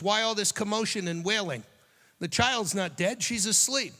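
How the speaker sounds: firm challenge. Acted. Jesus confronting the mourners.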